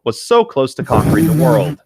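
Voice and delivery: lightly mocking a player's protest; a touch of indignant complaint, played for laughs; mock whiny quote. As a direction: quote him with a hint of indignation. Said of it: "and I quote".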